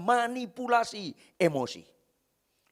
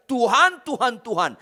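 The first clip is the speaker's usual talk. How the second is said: crying out; 2 semitones higher, 4 dB louder than usual. Retold or imitated. Preacher voicing the crowd crying out to God, loud plea. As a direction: cry out to the Lord, pleading. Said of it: "banyak orang teriak".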